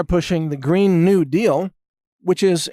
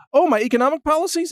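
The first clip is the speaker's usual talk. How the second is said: higher, quicker stalling echo of the question; mock candidate; 10 semitones higher, faster than usual. Candidate asked about economic policies, mock stalling. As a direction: lightly mimic a candidate caught off guard.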